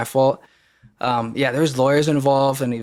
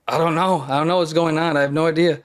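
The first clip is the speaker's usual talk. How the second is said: higher, mildly acted distress; imitating being upset and at a loss; retold overwhelmed outburst; 5 semitones higher, 4 dB louder, faster than usual. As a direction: plead helplessly, as if retelling a tearful moment. Retold outburst while bawling.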